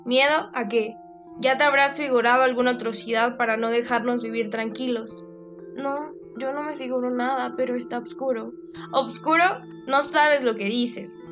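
irritated scolding. Acted. Mother scolds scared daughter.

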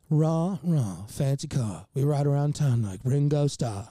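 mock British with dropped r's; joke British accent. Stoned songwriter improvising a joke bridge, mock British accent. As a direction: toss it off in a fake British accent. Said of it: "Can you do a British accent?".

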